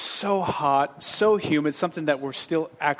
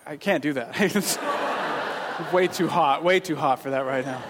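laughing refusal. Retold or imitated. Joking refusal to hug.

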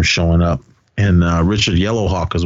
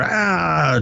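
high drawn-out "aah" car noise; imitated car noise; 9 semitones higher than usual. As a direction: mimic a car tearing away. Imitates car tearing away.

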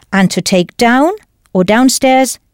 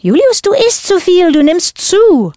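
high model repeat; 10 semitones higher than usual. Shown as a demonstration. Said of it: "teacher repeats model answer".

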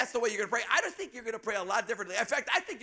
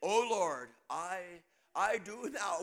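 mock biblical prophet; 3 semitones lower, slower than usual. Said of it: "says this kind of a prayer".

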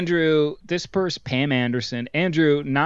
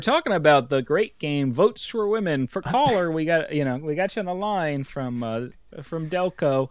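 radio host; 3 semitones higher than usual. Pretend. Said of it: "sports radio call in".

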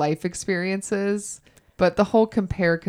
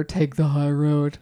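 slow, drawn-out stock phrase; quoting a cliché; slower than usual. Shown as a demonstration. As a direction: say it like a tired old saying. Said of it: "I know it's annoying to hear".

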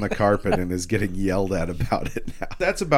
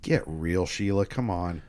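low, muted scoff; dismissive; 4 semitones lower, 7 dB quieter than usual. Retold or imitated. Ash waving away Sheila's faith in him, low dismissive voice. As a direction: brush it off low and under-energized.

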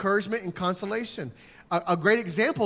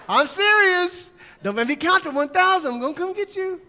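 mock stern parent; 9 semitones higher, 5 dB louder than usual. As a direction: threaten a child, half joking. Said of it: "It's just like when you say".

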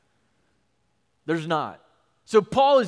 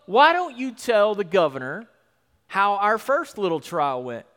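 louder, challenging sarcasm; Paul taunting accusers; 3 semitones higher, 5 dB louder than usual. Retold or imitated. Paul taunting the council before the governor, defiant. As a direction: twist the knife. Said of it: "Paul is basically gonna say".

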